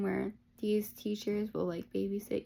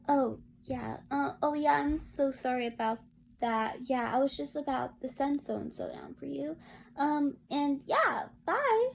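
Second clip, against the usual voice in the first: fake sweet voice; 4 semitones higher than usual. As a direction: put on a sugary, insincere politeness. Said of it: "said in the sweetest voice".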